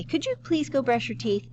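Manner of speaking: high, sweetly polite asking; polite mom request. Acted. Mom asks child politely instead of commanding, high and gentle. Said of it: "if she said it like that".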